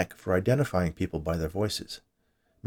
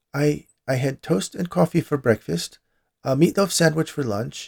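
high, nervous voice cracking and breaking; 8 semitones higher than usual. A housekeeper answers after being pointed at, her voice cracking nervously. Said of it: "her voice cracking nervously".

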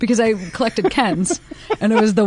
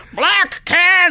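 put-on shrill, very high, loud child's yell; 9 semitones higher than usual. Speaker acts out their seven-year-old self's answer: retold child's loud shout. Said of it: "the loudest voice you've ever heard come out of a 7-year-old".

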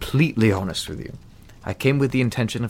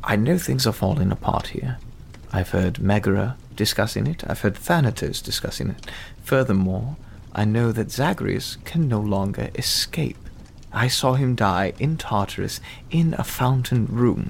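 guarded, confiding tone with lowered voice. Voicing a character who confides in the player, in a lowered voice. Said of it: "he's going to do his best to lower his voice at this".

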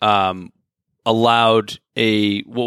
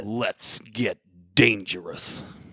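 low, slow, soft, growled cartoon hero voice. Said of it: "remember his catchphrase?".

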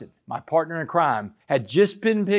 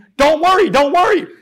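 shrill, very loud, high, full-throated scream; 12 semitones higher, 9 dB louder than usual. Pinned down by a cop, screaming back at him: retelling his own scream. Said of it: "I screamed back at him".

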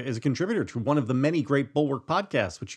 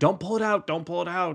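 mock high screamed shouting, said repeatedly; 6 semitones higher than usual. Retelling a traffic stop where the cop screams at a driver: imitating someone screaming. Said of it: "The cop starts screaming at him".

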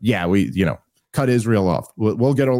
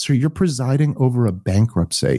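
grave, dead-serious put-on tone. Retelling a CIA veteran's retort to a chairman: imitating Michael Scheuer, very serious. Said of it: "it was just so serious".

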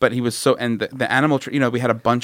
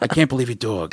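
mock stunned, disbelieving delivery. Repeating a guy's line when asked to: imitating the guy's disbelief. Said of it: "Will you one more time for, just for me, say".

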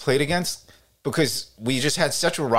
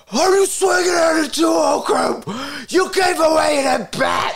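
put-on big, very high, slow, drawn-out yelling; 14 semitones higher, 4 dB louder than usual. Retelling a father yelling from the stands: imitating a father's big yelling voice. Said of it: "with his big voice, he would be like".

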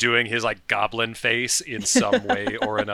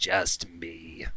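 voice sunk much lower in register, quieter; 5 semitones lower, 7 dB quieter than usual. Recapping a scene, the speaker quotes a character's reply: much lower voice. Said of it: "his voice just immediately gets that so much lower".

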